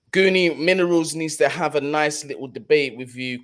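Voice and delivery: usual speaking voice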